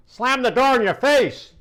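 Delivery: mock outrage, pitched well up; disbelieving Sal repeating it back high; incredulous.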